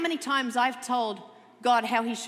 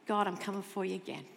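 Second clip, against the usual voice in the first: sinister cynic; 4 semitones lower, 6 dB quieter, faster than usual. Retold or imitated. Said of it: "and then the cynic starts".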